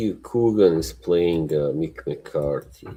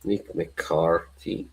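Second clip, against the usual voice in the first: slow, soft MICK MCCARTHY in mock Irish; Irish accent; 6 dB quieter, slower than usual. Shown as a demonstration. Relishing the manager's name, slow mock Irish.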